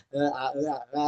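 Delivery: imitated stalling vowel noises; hesitation fillers. Shown as a demonstration. Teacher shows what to cut down, stalling fillers. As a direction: fumble along on "e, a, e". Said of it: "itu kurang".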